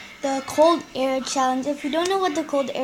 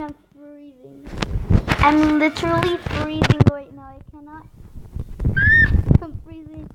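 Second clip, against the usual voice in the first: shivering from the cold. Real, not acted. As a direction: talk through chattering cold.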